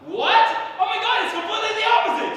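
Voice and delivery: high, loud shocked rebuttal; incredulous. Acted. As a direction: burst out in total disbelief. Incredulous reply to the guy friend.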